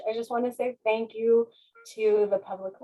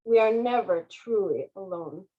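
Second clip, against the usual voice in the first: gentle; 2 semitones lower than usual. Acted. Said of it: "the colors gently remarked".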